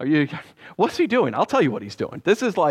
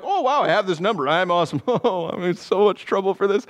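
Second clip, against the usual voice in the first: mocking David.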